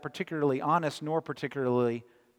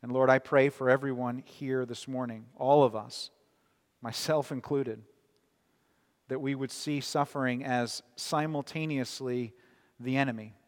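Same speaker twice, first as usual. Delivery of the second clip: prayer. Acted. Leads a closing prayer.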